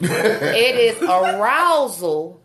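slow, with a laugh; laughing while talking. Real, not acted. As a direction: say it slowly, half laughing. Laughing at the term.

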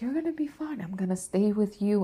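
soft voice. Retold or imitated. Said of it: "he has such a fucking soft voice".

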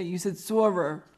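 SORER drawn out with heavy r; imitating co-host's pronunciation. Host quoting co-host on her accent, slow mimicry. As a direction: slowly mimic SORER with hard r sounds. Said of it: "have someone say".

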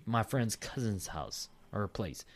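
steady reading aloud from a submission; story read-aloud. Acted. Co-host reads next listener story, steady read-aloud. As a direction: read the account out evenly, sentence by sentence.

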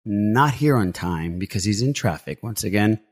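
slow hyped ring announcer; announcer intro. Acted. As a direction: stretch out each introduction. Host introduces cohosts.

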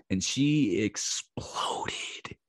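slow, whispered reveal; whispered, drawn-out punchline; hushed whisper. Real, not acted. Punchline of the story.

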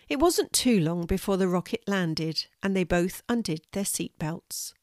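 gentle bedtime storytelling read; story narration. A narrator's reading. Grandma reading a bedtime story to her grandchildren, gently.

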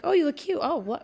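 a mother cooing over her daughter. Retold or imitated. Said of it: "usually when I look okay, she's like".

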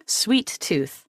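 hushed whisper. Acted. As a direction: whisper the clue like a secret. Quizmaster reading a clue.

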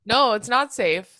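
slow, laughing through the words. Real, not acted. To her co-host about gross mozzarella sticks, laughing. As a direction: laugh it off slowly. Laughs at own bad lunch.

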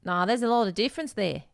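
put-on Australian inflection; Australian accent. Shown as a demonstration. Showing the inflection that differs from British, Australian accent. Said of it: "like, the inflection there".

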